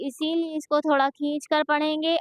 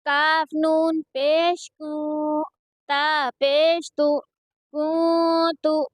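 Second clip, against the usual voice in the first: slow, level-pitched syllable chant; measured qaida recitation for learners to copy; Quranic spelling drill; much slower than usual. Shown as a demonstration. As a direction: spell out each syllable with drawn-out vowels.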